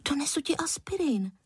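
put-on a boy offering help in a whisper; hushed eager boy. A narrator's reading. (šeptem, dětsky)

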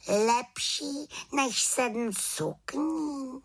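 high, slow baffled question; puzzled witch. Acted. Witch baffled by raven's hint, slow question. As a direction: drag out the disbelief.

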